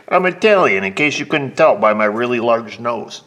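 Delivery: hammed-up Italian guy proudly announcing himself; a singer. Mechanic imitates an Italian customer on his nose, loud mock-Italian voice. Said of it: "Not that he talked like that".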